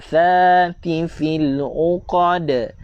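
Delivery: "Thati fil uqad" slow, tongue out on th; drawn-out "Thati", tongue between teeth. Shown as a demonstration. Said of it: "Tha, lidah keluar". ("Thati" dengan lidah keluar)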